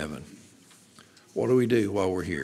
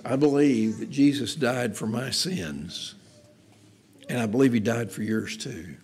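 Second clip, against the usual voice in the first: simple sincere testimony. Shown as a demonstration. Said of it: "Just try saying this".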